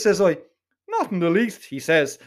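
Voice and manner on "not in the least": lightly voiced smug Donnybrook student; a hint of a superior Donnybrook accent. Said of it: "in that smug Donnybrook accent of his".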